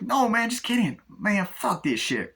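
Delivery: high-voiced shrug-off; actor impression. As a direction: brush him off, lazily. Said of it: "doing the impressions of the, uh, actors".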